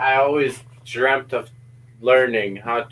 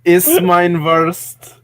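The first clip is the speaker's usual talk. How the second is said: put-on slow, loud, higher-pitched German accent; mock German accent; 4 semitones higher, 6 dB louder, much slower than usual. Mocking the voice app's pronunciation, in a loud German accent. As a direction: drawl it loudly in put-on German.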